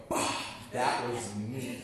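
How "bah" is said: sudden electrocuted cartoon "Bah!"; cartoon shock yelp. Comedian imitating a shocked cartoon character, a short startled "Bah!". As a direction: jolt like a cartoon character hitting a socket. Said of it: "when they stick a fork in a socket and they go".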